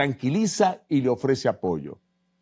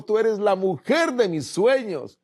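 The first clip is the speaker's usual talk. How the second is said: husband's sweet talk; 7 semitones higher, slower than usual. Acted. Husband's line in a joke.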